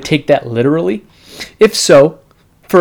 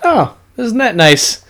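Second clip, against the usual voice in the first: sarcastic; 8 semitones higher, slower than usual. Pretend. Sarcastic reply about communism.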